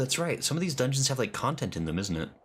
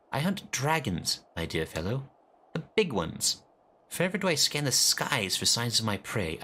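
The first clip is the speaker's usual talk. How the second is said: lightly voiced haughty dragon hunter, aloof; voiced game character; 5 semitones higher than usual. Streamer reading a snooty NPC aloud, lightly acted. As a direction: read the NPC like a proud noble hunter.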